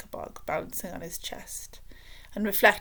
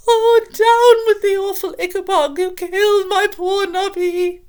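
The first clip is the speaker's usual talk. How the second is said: much higher, loud cursing wail; wailing curse; 12 semitones higher, 14 dB louder than usual. A narrator's reading. Mother at her son's grave, wailing curses loudly. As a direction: howl curses at the monster. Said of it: "wailed and cursed the Ichabod".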